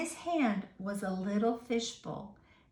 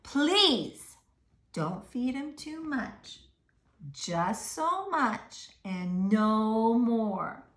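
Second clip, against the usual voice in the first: slow, firm, deliberate; stern warning; 4 dB louder, much slower than usual. Acted. Mister Carp warning the boy about feeding. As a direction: lay down the rule gravely. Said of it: "said Mister Carp".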